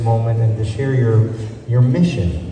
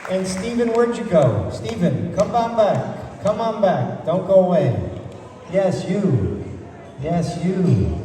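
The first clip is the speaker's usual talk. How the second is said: calling out; 8 semitones higher, 5 dB quieter, slower than usual. Real, not acted. Calls Stephen back across the room.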